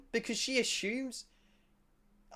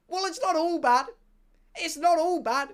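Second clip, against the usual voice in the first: high, lightly sweet lady voice; mimicking Uber lady; 9 semitones higher, 5 dB louder than usual. To the passengers, a lady driver's sweet mock voice. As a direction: raise the pitch for the driver's reassurance. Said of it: "she's like".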